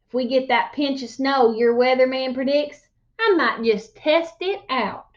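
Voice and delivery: lively storyteller voice reading a tall tale; animated read-aloud narration; story narration. A narrator's reading. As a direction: spin the yarn to the class.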